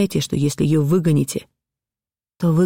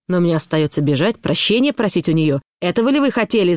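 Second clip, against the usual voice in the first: shouting; 2 semitones higher than usual. Acted. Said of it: "закричал Пётр Александрович".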